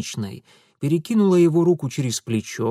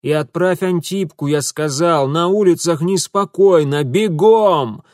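louder firm order; commanding; 4 semitones higher, 7 dB louder than usual. Acted. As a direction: order her off sharply. Mitya ordering maid.

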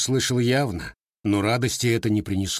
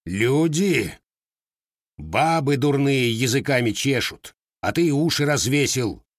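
growl; 4 semitones higher than usual. A narrator's reading. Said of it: "зарычал казак в ответ".

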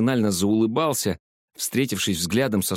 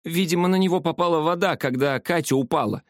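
high, surprised gasp; gasping in surprise; 8 semitones higher than usual. A narrator's reading. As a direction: say it, startled, pitched high. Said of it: "ахнула Зоя". (ахнув от удивления)

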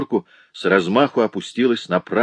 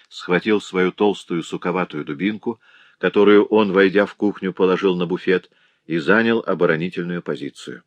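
plain reading voice

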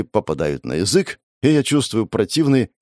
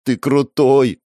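put-on louder, eager kid's praise; eager child's exclamation; fired up; 5 semitones higher, 5 dB louder, much slower than usual. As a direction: blurt it out, impressed child. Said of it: "воспылал ребёнок".

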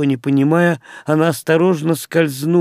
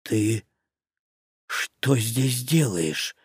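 soft, slow stunned question; astonished; 4 semitones lower, 8 dB quieter, much slower than usual. A narrator's reading. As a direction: genuinely caught off guard. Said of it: "искреннее изумление".

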